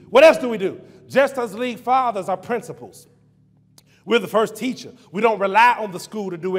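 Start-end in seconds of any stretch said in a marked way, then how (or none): 0.1-0.8 louder repeat. Shown as a demonstration. Preacher repeating his question louder to the church. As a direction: push the question out to the congregation.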